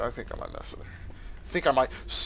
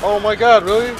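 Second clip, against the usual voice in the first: loud high disbelieving cry; exasperated outburst; 8 semitones higher, 17 dB louder than usual. Real, not acted. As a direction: shout your frustration at the miss. Witch escapes with one shot.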